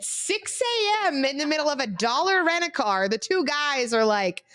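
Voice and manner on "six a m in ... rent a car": mock crying. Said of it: "We're just crying".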